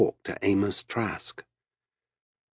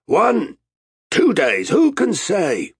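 high, loud answer; shouted reply; 12 semitones higher, 6 dB louder, slower than usual. A narrator's reading. Captain at the tiller answering Arutha, shouted. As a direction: shout back over the gale.

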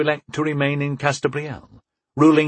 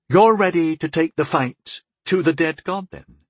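voice rising higher; 5 semitones higher than usual. Acted. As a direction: voice climbing a little higher. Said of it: "his voice rising just a bit higher than he'd intended".

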